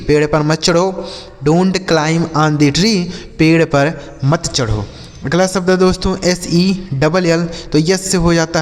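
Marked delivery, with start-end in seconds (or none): 1.4-3.0 slow, careful English question; slow model reading. Shown as a demonstration. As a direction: read it out slowly for learners. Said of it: "slow model sentence repeated".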